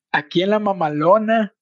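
imitating the gringa saying la mamalona in an American accent. Friend on a podcast imitating the American woman, light gringa accent. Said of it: "me da mucha risa como le dice esta, la gringa".

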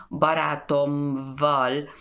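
Baratomval slowly, with m then v; slow, unassimilated Baratomval; hard consonant-to-V join. Shown as a demonstration. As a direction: say Baratomval keeping the v after m. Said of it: "es muy difícil ir de la consonante a la V".

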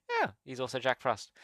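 soft inner-thought aside; private thought. Retold or imitated. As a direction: drop the volume as if thinking to yourself. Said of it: "But I'm thinking".

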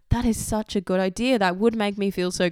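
mock-thrilled yes; excited agreement. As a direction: gush over the idea. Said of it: "And I'm like".

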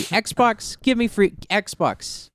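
high, slow whiny demand; demanding gamer. Acted. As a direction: whine at the console like a spoiled kid. Mock demanding the console.

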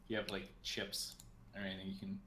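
hushed teasing whisper. Real, not acted. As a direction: whisper it like a secret. Teasing whisper about crunchy food.

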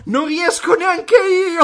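lento, alto, lamentoso; in vivavoce. Retold or imitated. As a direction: piagnucola dal vivavoce. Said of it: "E l'altro". (voce lamentosa dal vivavoce)

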